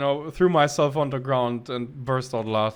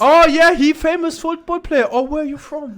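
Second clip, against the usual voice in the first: higher, louder broken English mock; lightly mimicked stranger; 12 semitones higher, 8 dB louder than usual. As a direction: ham up the chatty stranger. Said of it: "mimicking the man".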